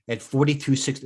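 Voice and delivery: talking through a yawn; words stretched by a yawn. Real, not acted. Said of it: "I apologize if I'm yawning".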